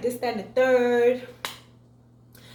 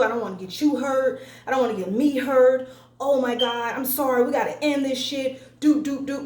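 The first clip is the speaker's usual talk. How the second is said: mock scared boyfriend; 3 dB louder than usual. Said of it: "he acts so scared of her anger".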